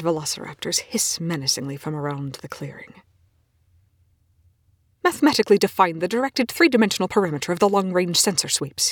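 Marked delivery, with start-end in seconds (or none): 5.0-8.9 a curt, slightly raised demand; snapping. Acted. Scientist quizzing his entranced colleague, curt snap. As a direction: snap the question at her. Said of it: "he snaps".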